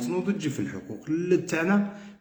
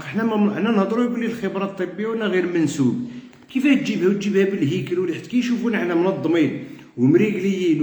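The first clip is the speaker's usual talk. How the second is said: fed-up organizer berating divided colleagues, raised heated voice; exasperated outburst; 5 semitones higher than usual. Real, not acted. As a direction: vent the frustration hard, pitch climbing. Exasperated rant about union infighting.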